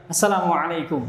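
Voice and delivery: "Assalamualaikum" with a clear throaty ain; correct greeting. Shown as a demonstration. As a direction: articulate "alaikum" from the throat in "Assalamualaikum". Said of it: "salamnya yang benar". ("Assalamualaikum" yang benar dengan ain)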